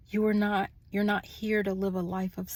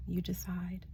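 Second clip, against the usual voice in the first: hushed whisper on the last words; 8 dB quieter than usual. Real, not acted. Reader whispering the choice back to her viewers. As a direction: drop to a whisper to let it land. Closing line of spiritual message.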